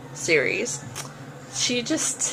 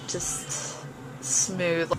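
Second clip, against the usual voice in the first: just smooth, whispered dreamily; breathy whisper; 5 semitones lower, 9 dB quieter than usual. Real, not acted. Swooning to viewers over the imagined voice, hushed whisper. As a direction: sigh it out under the breath.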